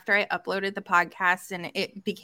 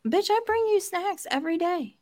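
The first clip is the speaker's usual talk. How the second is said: mock indignant; 9 semitones higher than usual. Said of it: "And I was like".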